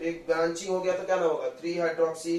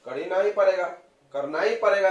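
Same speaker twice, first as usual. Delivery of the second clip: emphatic insistence; 2 semitones higher, 6 dB louder than usual. Real, not acted. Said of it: "कर सकते कि नहीं".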